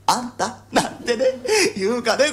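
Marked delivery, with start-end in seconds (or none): 0.1-0.6 imagined wife calling. Pretend. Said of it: "あのことなんて言うんだろうね".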